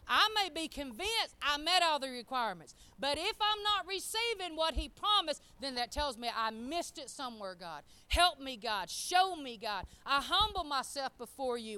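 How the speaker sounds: impassioned pulpit plea; fervent preaching. Real, not acted. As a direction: preach it forcefully, surging on key phrases. Preaches with raised voice.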